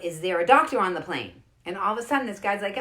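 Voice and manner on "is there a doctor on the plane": louder imitated call for help; retold yell. Passenger calls through the plane for a doctor, retold yell. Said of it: "somebody yelled out".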